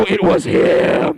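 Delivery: slow whispered accusation; accusing whisper. Acted. Angry ATM user spotting the short comedian, slow whispered accusation. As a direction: point him out in a hushed whisper. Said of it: "You're gonna see me and go".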